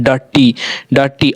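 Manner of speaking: डर्टी said as "daa-tee"; teacher sounding out डर्टी; "aa" vowel demo. Shown as a demonstration. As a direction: open aa in the first syllable of डर्टी. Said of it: "आ का उच्चारण आ रहा है".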